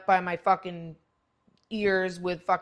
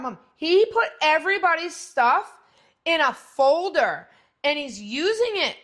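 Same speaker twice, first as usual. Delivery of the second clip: put-on excited teen daughter; 4 semitones higher, 6 dB louder than usual. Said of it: "she goes".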